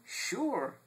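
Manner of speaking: the salesman confirming eagerly; high falling "sure"; dealer voice. Retold or imitated. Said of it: "dealer answers".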